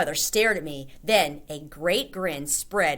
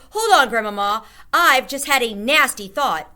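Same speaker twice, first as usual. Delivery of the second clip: urgent alarm; 6 semitones higher, 10 dB louder than usual. A narrator's reading. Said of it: "boy alarmed mid-conversation".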